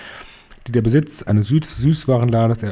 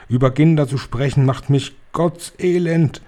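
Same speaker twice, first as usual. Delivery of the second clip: calling out; 4 semitones higher than usual. Acted. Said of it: "rief die Hoch- und Großmeisterhexe".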